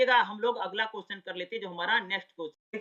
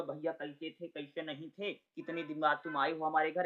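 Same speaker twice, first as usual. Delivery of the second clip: mildly emotional, lower and softer; 4 semitones lower, 5 dB quieter than usual. Shown as a demonstration. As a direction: demonstrate a gently sentimental greeting, voice lowered. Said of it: "बड़ा भावुक होकर के बात करता है". (हल्के भावुक अंदाज़ में, धीमी आवाज़ से)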